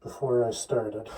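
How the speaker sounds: muffled through a respirator mask. Real, not acted. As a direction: speak muffled behind a respirator. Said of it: "the muffled voice".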